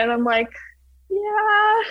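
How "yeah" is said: reenacted reply. Her reply to the coach.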